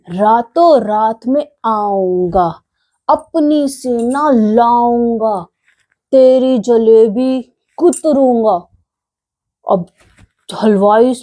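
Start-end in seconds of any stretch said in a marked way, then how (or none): 0.1-8.7 slow, mock-menacing mouse threat; angry threat. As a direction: spell out the threat slowly, a touch of anger. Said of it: "चूहे को गुस्सा आ गया". (धीमी, हल्की गुस्से वाली धमकी)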